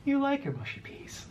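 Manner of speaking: very high cooing pet voice. Real, not acted. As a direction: coo at the dog. Talking to the pet.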